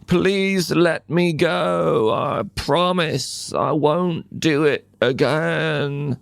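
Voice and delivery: storyteller voicing a begging spider; pleading Anansi. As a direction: beg forgiveness, small voice. Trapped Anansi begs.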